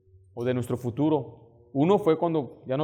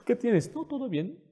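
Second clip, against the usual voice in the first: high, hammed-up squeak; mock tearful denial; 9 semitones higher than usual. Husband caught crying by his wife, high mock denial. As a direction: pretend all is fine in a high voice.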